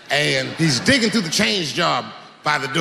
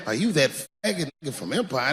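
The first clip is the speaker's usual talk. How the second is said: soft, flat and blunt; just say it straight, how he would; blunt street version; 5 dB quieter, faster than usual. Shown as a demonstration. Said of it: "They would never say that".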